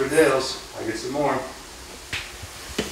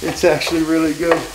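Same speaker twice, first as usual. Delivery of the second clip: higher, echoing her surprise; mock surprised; 6 semitones higher than usual. Repeating his daughter's verdict in mock surprise. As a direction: parrot her amazed verdict. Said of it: "Like she's surprised".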